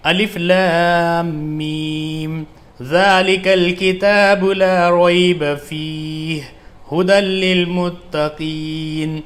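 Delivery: slow, melodic tajweed chant, words joined; fluent Quran recitation. Shown as a demonstration. Teacher shows students how to recite fluently, slow melodic chant. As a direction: recite it smoothly and musically after the spelling drill. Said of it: "اب اس کو ملا کر ہم ایسے پڑھیں گے".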